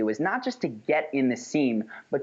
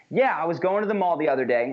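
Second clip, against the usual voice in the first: firm, assured opening that holds the floor; stronger, with conviction; 3 semitones higher, faster than usual. Shown as a demonstration. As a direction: speak as if it deserves to be heard. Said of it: "but much stronger is".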